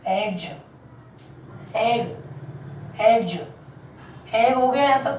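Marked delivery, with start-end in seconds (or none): 0.1-0.5 lower, softer "एग्ज" with j ending; final J sound. Shown as a demonstration. Teacher repeating the word for students, final J sound. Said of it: "क्या बोलेंगे भैया?". 3.0-3.4 "एग्ज" closed on a j; final J sound. Shown as a demonstration. Teacher adding the ending to egg, final J sound. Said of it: "जा sound देगा".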